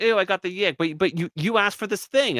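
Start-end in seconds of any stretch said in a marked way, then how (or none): 0.0-0.8 mock disgusted girlfriend. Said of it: "We cry, and".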